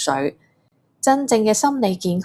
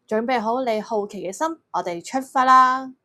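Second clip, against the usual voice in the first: excited; 4 semitones higher, 3 dB louder than usual. Real, not acted. Cheery kick-off to kids.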